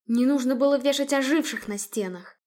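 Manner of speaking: usual speaking voice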